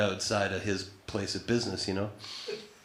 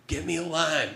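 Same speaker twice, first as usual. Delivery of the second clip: raised, higher call back; mock yell; 6 semitones higher than usual. Chris yelling after Matt, a mild mock yell. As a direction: call it after him down the street. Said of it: "he yells out after me".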